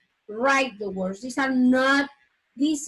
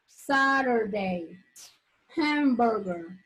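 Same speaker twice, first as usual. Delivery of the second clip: each word stretched out slowly; slow pronunciation drill; slow model words; much slower than usual. Shown as a demonstration. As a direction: drill them slowly for the class. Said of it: "teacher models word list".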